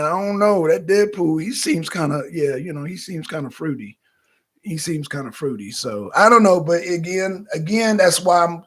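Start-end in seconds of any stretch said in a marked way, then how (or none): 2.8-5.7 unvoiced gossiping whisper; whispered aside. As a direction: lean in and whisper it. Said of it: "whispered aside".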